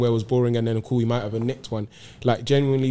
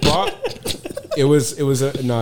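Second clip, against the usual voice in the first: laughing; 2 semitones higher, much slower than usual. Real, not acted. Laughing about joke.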